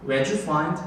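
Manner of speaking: "Where'd you find" slurred into one flow; linked, reduced. Shown as a demonstration. Teacher repeating the real reading for students, linked. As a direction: let "did" melt into "Where'd you find". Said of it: "이렇게 흘려서 읽는단 말이에요".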